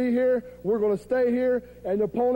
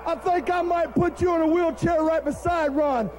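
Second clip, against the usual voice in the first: angry wrestler shout; 3 semitones higher than usual. Acted. Wrestler threatens rival on TV.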